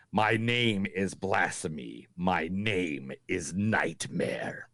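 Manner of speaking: low, slow ominous growl; slow demon voice. Acted. Host voicing the demon for his cohost, low and slow. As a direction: threaten them in a slow demon voice. Demon quotes read slowly.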